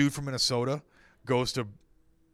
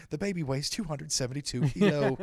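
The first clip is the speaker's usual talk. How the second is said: laughing through a silly made-up announcement; mock-read it while cracking up; laughing mock quote; 3 semitones higher, 3 dB louder than usual. Mocking a silly birth announcement.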